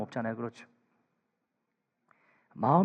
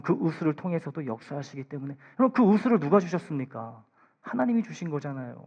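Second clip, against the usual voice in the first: ordinary talk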